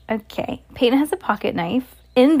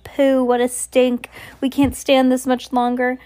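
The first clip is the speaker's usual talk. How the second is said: raised cry at a foul stink; disgusted cries; 4 semitones higher, 5 dB louder, slower than usual. Acted. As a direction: complain loudly about the smell, acted. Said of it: "they were cries of".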